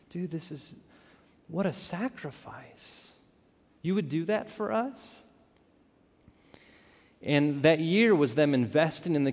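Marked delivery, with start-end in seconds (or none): 0.1-5.2 slow, hushed amazement climbing to a high question; retold awed disbelief. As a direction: replay being overwhelmed by their offer. Awed by friends' sacrifice, retold.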